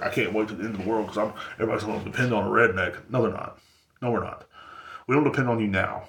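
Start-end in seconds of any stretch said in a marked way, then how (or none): 0.0-3.0 fast, eager redneck rant; excited redneck. Retold or imitated. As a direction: rattle it off like an excited hillbilly. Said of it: "they're like".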